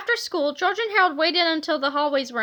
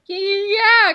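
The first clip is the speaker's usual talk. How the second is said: scared stammer; 5 semitones higher, 7 dB louder than usual. A narrator's reading. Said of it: "cried Harold".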